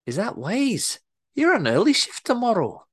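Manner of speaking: Scottish boss warns worker about early shift; sharp Scottish accent. Acted. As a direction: warn him off in Scottish. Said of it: "better Scottish accent than I'm portraying".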